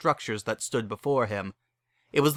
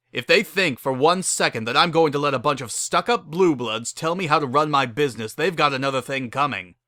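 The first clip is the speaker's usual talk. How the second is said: louder, mock-defiant grumble; defiant rant; 3 semitones higher, 4 dB louder than usual. Pokey defies the stuck-up nobles, mildly angry. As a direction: dare the nobles to try.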